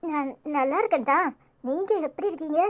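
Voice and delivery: soft, tearful reply; holding back tears. Acted. Niece on the phone to worried relative, quietly tearful. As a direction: answer quietly while trying not to cry. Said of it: "ஏய், அழுறியா?".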